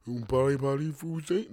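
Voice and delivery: mock French mumble; stereotype French voice. Mocking why people dislike the French, stereotype French accent. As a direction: caricature a French speaker with garbled French. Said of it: "Like that voice".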